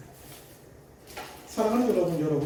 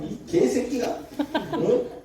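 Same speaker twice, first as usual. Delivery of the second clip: furious yelling mother; 10 semitones higher, 4 dB louder than usual. Retold or imitated. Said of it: "소리를 지르는 거예요".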